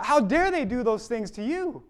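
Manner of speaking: high, impassioned outrage; indignant anger. Acted. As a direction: protest it with righteous indignation. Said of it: "our blood is just boiling".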